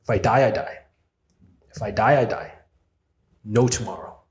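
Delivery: loud determined self-talk, building; defiant inner voice. Retold or imitated. His brave side pushing past fear, defiant and loud. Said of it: "there's just a part of me that is like".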